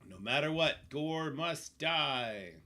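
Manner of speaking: slow dramatic declaration. Pretend.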